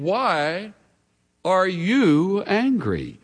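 slow "are you angry", weight on "you"; stress on you. Shown as a demonstration. Preacher reads God's question to Cain, pressing the word "you". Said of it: "the emphasis is on the pronoun".

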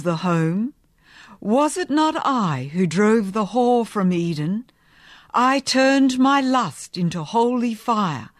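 ringing preacher's voice; pulpit voice. Acted. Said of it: "ringing timbre of the pulpit".

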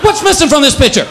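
mock cat in despair; outraged cat. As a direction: wail it like a betrayed cat. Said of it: "It's like".

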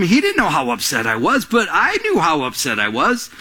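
ordinary talk

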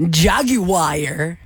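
Jaguar as "JAG-you-wire"; odd ad pronunciation. Shown as a demonstration. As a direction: stretch Jaguar into three parts, ending "wire". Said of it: "ways we've had to say things".

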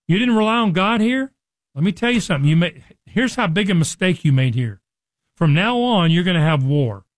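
mock stern warning, lightly voiced; stern rebuke. Preacher voicing the seer's rebuke.

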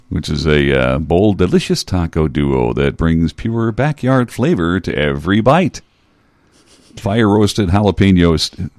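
light hard sell ad read; commercial voice. Shown as a demonstration. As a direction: lightly pitch it like a food commercial. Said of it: "I'm using my commercial voice".

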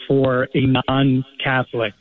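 slow, deliberate weight on "non-Catholic"; stress on Catholic. Real, not acted. Caller clarifying a church rule to the host, stressing "Catholic". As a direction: set "Catholic" apart with careful emphasis. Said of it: "I'm stressing the word Catholic".

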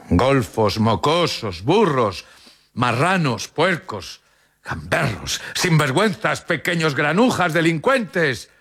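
high-pitched volley of insults; hurled insults. A narrator's reading. Townspeople hurling insults at twins. (insultos lanzados en tono muy agudo)

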